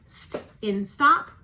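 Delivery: St in stop, each sound drawn out slowly; slow teacher phonics demo; slow phonics model. Shown as a demonstration. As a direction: model "St" slowly for the class to copy. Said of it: "repeat after me".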